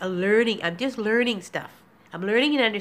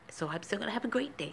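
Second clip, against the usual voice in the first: breathy whisper to herself; 10 dB quieter than usual. Real, not acted. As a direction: whisper it softly. Repeats line, second whispered.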